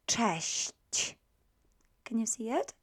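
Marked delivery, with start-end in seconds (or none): 0.1-1.1 "cześć" drawn out sound by sound; teacher slowly separating the final consonants of "cześć"; very slow pronunciation. Shown as a demonstration. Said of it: "pronounce it for you very slowly".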